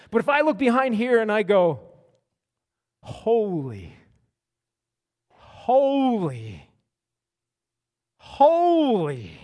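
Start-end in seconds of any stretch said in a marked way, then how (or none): 3.0-9.3 growing wonder at something overwhelming; awestruck. Shown as a demonstration. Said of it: "something pretty amazing back there".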